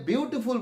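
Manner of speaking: second বিউটিফুল split into বিউ, টি, ফুল; syllable by syllable. Shown as a demonstration. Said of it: "আস্তে আস্তে উচ্চারণ করে". (ভেঙে ভেঙে বিউ, টি, ফুল)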